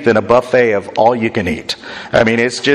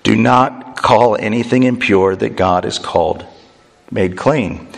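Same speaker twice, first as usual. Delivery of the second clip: heavenly voice; 4 semitones lower than usual. Acted. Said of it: "The heavenly voice and says".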